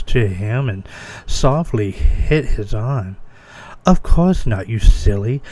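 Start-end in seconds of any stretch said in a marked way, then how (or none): 3.8-5.4 put-on giggly girl. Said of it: "she giggled".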